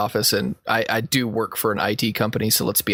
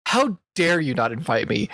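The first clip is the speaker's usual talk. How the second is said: mildly raised mock outrage; sarcastic indignation; 5 semitones higher than usual. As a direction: act put out, higher than usual. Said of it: "One of them knows I'm being sarcastic".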